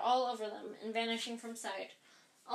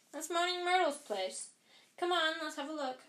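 put-on bright girl voice; 6 semitones higher than usual. A narrator's reading. Hermione bright voice.

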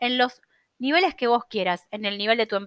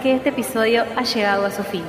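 airport announcement. Pretend. Flight announcement outro with music.

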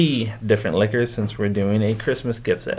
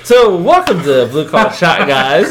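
laughing show intro; 4 semitones higher, 7 dB louder, slower than usual. Real, not acted.

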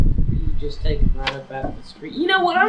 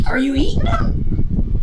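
high, loud shocked squeal; 6 dB louder than usual. Real, not acted. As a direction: recoil in disbelief. Shocked by cannibal hooker joke.

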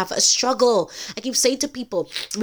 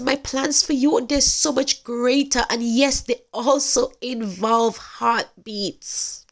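tender promise; 4 semitones higher, slower than usual. Retold or imitated. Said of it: "And he says".

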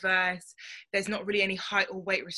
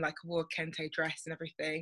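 usual speaking voice

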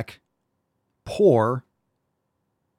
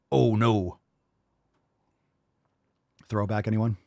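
ordinary delivery

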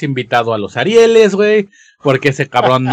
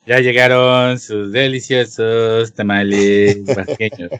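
slow, lower vendor loudspeaker call; tamale vendor recording; 5 semitones lower than usual. Retold or imitated. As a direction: drag it out like the street recording. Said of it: "la clásica voz de".

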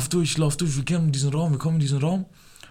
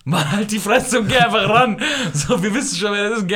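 retold yell; 6 semitones higher than usual. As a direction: yell at him to just answer. Someone yells at him to answer. (genervt schreien)

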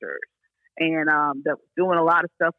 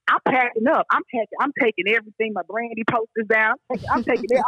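put-on higher, quickened teenage excitement; excited retelling; 5 semitones higher, faster than usual. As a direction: act out eagerly packing for the big move. Retelling her teenage excitement at moving.

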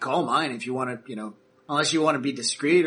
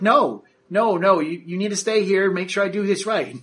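protesting technician; 5 semitones higher, 4 dB louder than usual. Acted. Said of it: "he's like".

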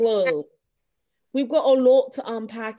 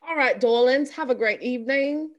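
playful mock British sign-off; put-on British accent. Host signing off to darlings, in mock British accent. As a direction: bid farewell in a pretend British accent.

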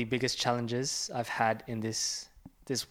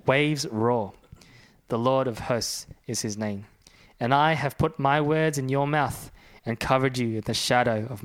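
louder, measured Bible reading voice; scripture reading; 4 dB louder than usual. Acted. Pastor reads Isaiah fifty-one to podcast hosts, proclaiming. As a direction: read it like proclaiming from the pulpit.

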